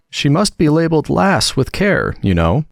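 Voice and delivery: a touch of softness in a lifted voice; very gentle voice. A narrator's reading. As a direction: gently suggest it, as from a distance. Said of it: "a very gentle voice in the distance said".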